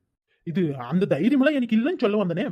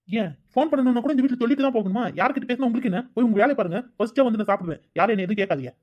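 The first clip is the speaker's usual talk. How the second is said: irritated, higher-pitched back-talk; raised-voice retort; 3 semitones higher than usual. Acted. Son telling mother to mind her business, irritated retort. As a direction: snap back, defensive and annoyed. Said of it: "எதுக்கு இப்ப அம்மா கிட்ட சத்தம் போடுற".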